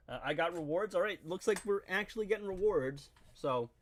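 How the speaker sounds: talking through a swollen lip; words a little thick from a split lip. Real, not acted. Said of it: "sorry about the split lip".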